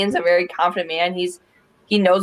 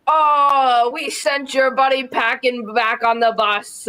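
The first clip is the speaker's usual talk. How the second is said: imitated Portuguese accent, pitched up; 5 semitones higher, slower than usual. Retelling Andre's teasing line to the co-hosts, imitated Portuguese accent. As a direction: mimic a friend's little Portuguese accent, higher voice. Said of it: "in his little, his Portuguese accent".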